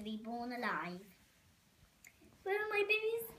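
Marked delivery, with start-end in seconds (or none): 2.4-3.4 put-on higher-pitched mother mouse with a French accent; mother mouse asks in a French accent. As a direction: call for her babies in a light French accent. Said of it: "Mother Mouse Antoinette ... French accent".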